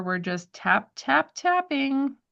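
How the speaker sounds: slow, rhythmic tap, tap, tapping; light tapping rhythm. Shown as a demonstration. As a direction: beat out tap, tap, tapping gently. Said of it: "not squish, squish, squishing".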